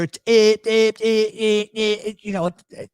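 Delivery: high, repeated Philly bleat; exaggerated South Philly vowel noise; South Philly drawl. Shown as a demonstration. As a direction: imitate the Philly "eh" over and over. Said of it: "you take me around there".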